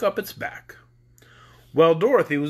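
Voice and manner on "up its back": breathy whispered ending. A narrator's reading. Narrator telling of the scarecrow's pole, whispered. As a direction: let it fade into a whisper.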